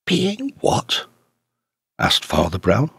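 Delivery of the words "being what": a sharp, high astonished question; sharp and startled, as if the word stung. A narrator's reading. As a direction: snap the question back, pitched high. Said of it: "rather sharply".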